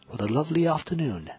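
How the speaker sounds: put-on whispered English accent. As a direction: whisper it like a prim English lady, stressing lovely. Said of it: "as they say in England".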